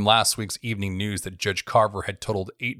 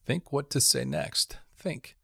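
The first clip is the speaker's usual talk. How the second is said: tense inner whisper; 6 semitones higher, 6 dB quieter than usual. A narrator's reading. Panicked inner thought.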